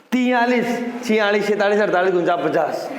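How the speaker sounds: running numbers off colloquially, pitch falling to the end; everyday counting. Retold or imitated. Teacher imitating students' counting, casual run. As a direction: rattle off the count as people usually do. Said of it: "यही तो बोलते हो आप गिनती".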